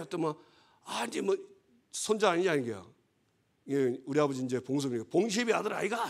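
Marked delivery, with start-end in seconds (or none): 0.8-2.5 higher, lightly imitated old Jeolla grandmother; a hint of a granny's Jeolla speech, asking back; Jeolla dialect grandmother. Grandmother answering the grandson, higher, light Jeolla dialect imitation. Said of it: "전라도 말로 우리 할머니". 5.1-6.1 higher, lightly imitated old Jeolla grandmother; a hint of a granny's Jeolla speech, asking back; Jeolla dialect grandmother. Grandmother answering the grandson, higher, light Jeolla dialect imitation. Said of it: "전라도 말로 우리 할머니".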